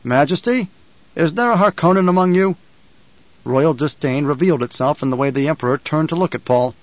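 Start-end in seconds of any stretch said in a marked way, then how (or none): 0.0-2.6 mildly projected formal call to a monarch; raised voice. Acted. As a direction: call out across to the Emperor. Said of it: "Paul raised his voice, called out".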